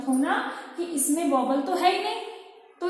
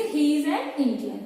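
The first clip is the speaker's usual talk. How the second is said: slow dictation; much slower than usual. Shown as a demonstration. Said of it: "teacher reading example".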